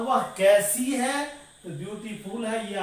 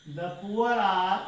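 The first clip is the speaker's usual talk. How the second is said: slow dictation; 2 semitones lower, much slower than usual. Shown as a demonstration. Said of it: "जैसे कहते हैं".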